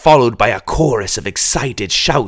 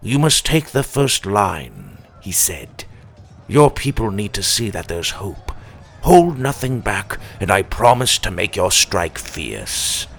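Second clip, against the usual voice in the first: composed. Acted. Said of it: "Gabriel's composed voice filled my mind".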